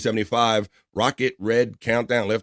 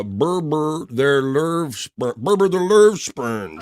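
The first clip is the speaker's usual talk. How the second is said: laughing; 5 semitones higher, much slower than usual. Real, not acted. Mangling a name while laughing.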